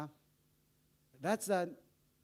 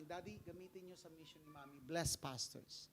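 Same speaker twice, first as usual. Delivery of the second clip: tearful son; 4 semitones lower, 15 dB quieter than usual. Retold or imitated. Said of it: "Umiiyak siya".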